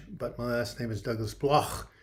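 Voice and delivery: Bloch said the German way, with a throaty ch at the end; German pronunciation. Shown as a demonstration. Viewers hear his name said properly, German style. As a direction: give Bloch its German ch sound. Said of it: "The German pronunciation".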